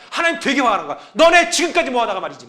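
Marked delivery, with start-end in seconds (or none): 1.1-2.5 angry God voiced.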